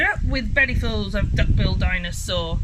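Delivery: loud, full-voiced chant; group war cry. A narrator's reading. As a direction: shout it out as a rallying slogan. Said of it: "and they shouted".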